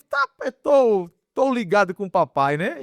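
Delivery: mock suspicious tone; retold suspicion. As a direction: lightly act out growing doubt. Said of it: "Já comecei a ficar meio assim, desconfiado".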